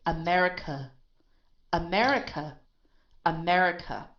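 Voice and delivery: America ending in a light "uh"; unstressed final schwa. Shown as a demonstration. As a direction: let the last vowel of America fall away unstressed. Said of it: "this is an unstressed sound".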